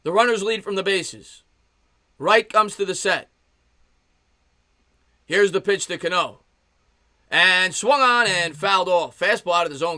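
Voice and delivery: sportscaster delivery, stretching out the swing; live play-by-play. Real, not acted. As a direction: announce the batter, then follow the pitch. Calls the at-bat live.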